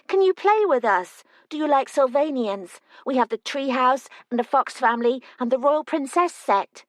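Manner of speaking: put-on high, bright, excited child pleading; small girl begging a visitor to play; eager little girl. Twin Lily brightens, asks to play.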